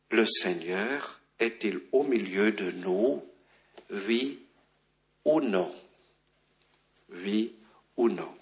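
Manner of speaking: soft, low, with long pauses; hushed, measured reading of a doubting question; grave scripture question. A narrator's reading. Reads out the people's doubting question.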